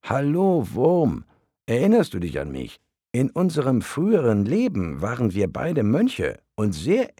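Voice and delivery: high, loud heavenly calling voice. Acted. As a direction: call down to the worm, bright and high. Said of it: "und rief".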